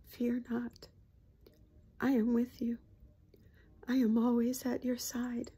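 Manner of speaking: real emotion, hushed and half-whispered; holding back tears on a scripture line; choked-up soft quiet reading; emotional. Real, not acted. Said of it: "I got a little bit too emotional".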